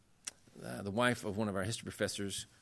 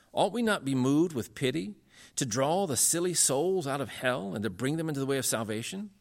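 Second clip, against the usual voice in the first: earnest, raised preaching voice; impassioned sermon quote; 4 semitones higher than usual. Retold or imitated. Lecturer quoting Calvin's preaching to his audience, earnest exhortation. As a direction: read it out as an urgent plea.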